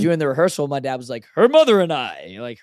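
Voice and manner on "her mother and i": joking loud. Retold or imitated. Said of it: "kinda joking around, saying it loud".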